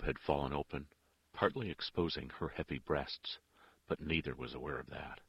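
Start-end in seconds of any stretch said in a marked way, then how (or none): none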